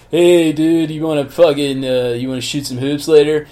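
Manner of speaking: hammed-up beach bum with a beer; surfer dude. Mocking Paul Walker's character as a stoned surfer dude.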